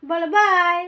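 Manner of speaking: high, loud coaxing voice. Real, not acted. Coaxing child to say bye.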